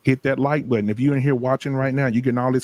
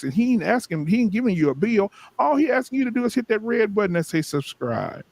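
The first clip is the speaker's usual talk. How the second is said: rising preacher build, higher and higher; preaching; 3 semitones higher than usual. Acted. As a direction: build the sermon to a peak. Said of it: "I'm clipping that".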